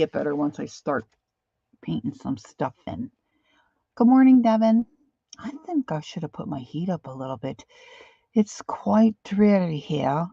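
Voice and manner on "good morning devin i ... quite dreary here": attempted Irish accent. Greeting Devin in a mock Irish accent that misses. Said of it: "that's the wrong accent".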